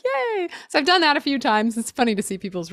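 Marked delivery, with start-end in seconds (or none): 0.0-0.5 cheery yay. Retold or imitated. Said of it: "And I was like".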